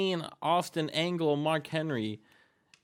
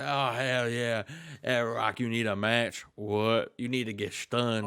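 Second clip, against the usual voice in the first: Stone Cold; 3 semitones lower than usual. Acted. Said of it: "out comes Stone Cold".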